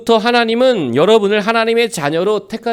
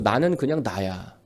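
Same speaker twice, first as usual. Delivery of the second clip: quiet assertion; 9 semitones lower, 7 dB quieter, slower than usual. Acted. Quoted line, spoken as self-assertion.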